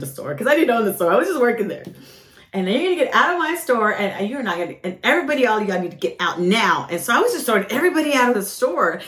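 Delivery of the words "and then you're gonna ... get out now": angry order. Retold or imitated. Throwing everyone out of store.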